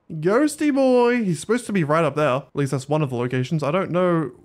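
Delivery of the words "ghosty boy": slow, higher sing-song call; coaxing a hiding pet out; drawn-out call. Real, not acted. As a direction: stretch the call out slowly. Calling for the missing ghost.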